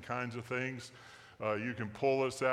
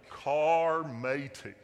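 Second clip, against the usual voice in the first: slow, louder pirate drawl on "Carmatey", the r rolled out long; drawn-out pirate name again; 5 dB louder, much slower than usual. Pretend. Pastor repeating the app name to the congregation in a pirate accent. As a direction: stretch out "Carmatey" once more like a pirate. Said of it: "in a pirate accent".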